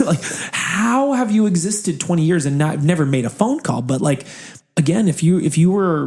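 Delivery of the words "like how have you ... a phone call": whispered through a laugh, higher; laughing disbelief. Real, not acted.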